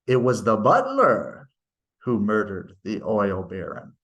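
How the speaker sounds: teacher demonstrating end focus, pitch rising on "butler"; pitch rises on butler. Shown as a demonstration. Grammar teacher reading aloud, voice rising on "butler". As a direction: lift the pitch on "butler", then let "who murdered the oil baron" fall away. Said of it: "your pitch would rise with the butler".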